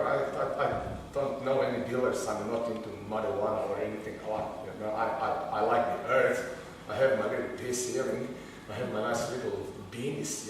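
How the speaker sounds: low, very soft denial; hushed, meek mock innocence; feigned innocence. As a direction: play the harmless hippie, voice dropped right down. Feigns innocence to pot-seeking teenagers.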